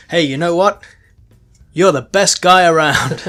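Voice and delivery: loud, high gushing put-on voice; hammed-up girl swooning over him. Retelling the daughter with the dad's brain, mock gushing. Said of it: "and she was like".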